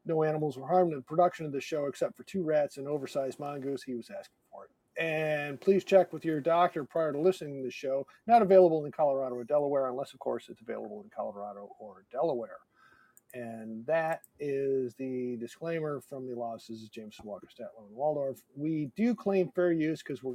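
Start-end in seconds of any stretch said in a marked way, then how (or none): 0.0-4.7 rapid legal disclaimer read; super fast ad read. Acted. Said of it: "have given us the following disclaimer". 5.0-18.4 rapid legal disclaimer read; super fast ad read. Acted. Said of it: "have given us the following disclaimer".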